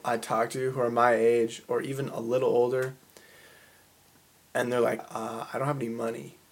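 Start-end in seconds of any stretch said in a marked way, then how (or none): 5.1-6.4 soft, whiny mumble; whiny complaint. Retold or imitated. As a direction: mumble it like a broke slacker. Quoting broke friends.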